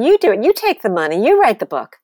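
loud, punched-out challenge; retold screaming. Writer screaming at agent to take the deal, retold. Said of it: "I'm screaming at him".

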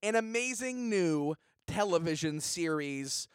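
hyped pitchman promo voice; cheesy promo announcer; ad read. Acted. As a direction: sell the show like a TV spot. Reads a comedy ad.

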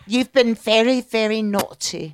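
slow British scolding; British accent. Acted. Guest playing a scolding English ghost, British accent. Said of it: "with a British accent".

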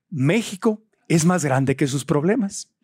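lightly voiced politician, slow and stately; a hint of a presidential speech; mock campaign slogan, slow and measured; imitating a president. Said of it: "voy a hablar como él".

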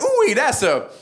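hammed-up Cajun whoop, jumping high; broad comic Cajun voice; thick Cajun accent. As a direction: play an excitable Cajun in a lab. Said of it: "this thick Cajun accent".

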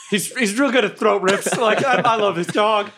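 high-pitched call to the party; yelled warning. Acted. Fighter warns friends behind him about throat rips, high yell. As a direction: pitch it way up, calling over a fight. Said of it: "I yell back to everybody".

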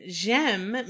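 J'aime said slowly as the French phrase; French pronunciation. Shown as a demonstration. Explaining the French phrase to a co-host, French pronunciation of J'aime. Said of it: "that French one is a phrase".

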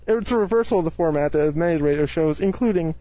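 muffled through a bandana. Real, not acted. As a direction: cloth over the mouth. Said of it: "my bandana is getting over my mouth".

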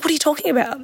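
high, baffled mock disbelief; incredulous trainer. Trainer to her student on the first day, high mock disbelief. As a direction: toss it up like you can't believe her. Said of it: "And she's like".

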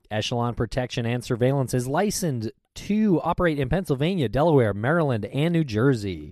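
formal licensing line in a commercial; ad read. Acted. Host tells listeners where the agency operates, ad read. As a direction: read it as sponsor copy. Reads a sponsor ad.

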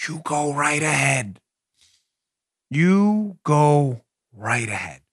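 low, slow and soft, dripping sarcasm; a slow, low, mocking go-ahead; sarcastic dismissal. Real, not acted. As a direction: wave them off with a slow sneer. Sarcastic dismissal, repeated slowly.

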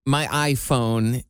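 "My iPhone" slowly, with full long I vowels; local "iPhone". Shown as a demonstration. Showing how locals say it, "My iPhone" with full I. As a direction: say "My iPhone" with a clear gliding eye sound. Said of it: "the way we would say it around here".

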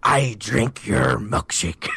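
slow, stretched-out quote delivery; performed movie quote. Acted. Host reading quote number four for contestants, slow performed quote. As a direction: draw each word out in character.

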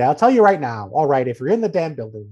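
emphatic mock Southern coach accent; weird Southern accent. Coach warning reporters, light Southern accent. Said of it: "he adopted this weird Southern accent".

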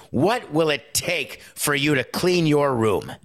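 put-on sarcastic parent asking a kid to clean up; mock parent. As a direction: drag it out like a fed-up parent. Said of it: "say it with sarcastically".

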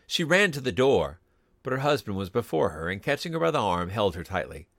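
measured, suspenseful storytelling; story narration. A narrator's reading. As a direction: narrate a ghost story with careful pauses.

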